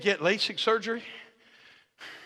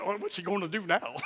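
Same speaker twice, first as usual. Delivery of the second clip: excited angels; 7 dB quieter than usual. Acted. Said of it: "the angels went".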